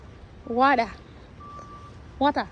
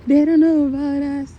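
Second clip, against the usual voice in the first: "don't" pushed louder, teasing; playful louder; 6 dB louder than usual. Pretend. Teasing repeat to baby.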